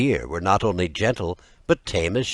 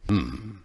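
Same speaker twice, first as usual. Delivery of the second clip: grunt; 5 dB quieter than usual. A narrator's reading. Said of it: "he grunted".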